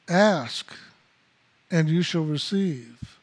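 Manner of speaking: "ask" set apart by a long pause before "and you shall receive"; slow emphatic repeat. Shown as a demonstration. Preacher repeating the saying to his flock, slow with a pause after "ask".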